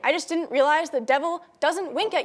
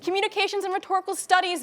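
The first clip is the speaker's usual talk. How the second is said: higher, crowing delivery; smug, raised-pitch gloat; triumphant comeback; 5 semitones higher than usual. Acted. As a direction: throw it in the rival's face. Throws major back as triumph.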